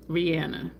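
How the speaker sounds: the name with a short flat A, ree-ANN-uh; the name, middle vowel as in "Anna"; island pronunciation. Retold or imitated. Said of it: "How do they pronounce your name over there?".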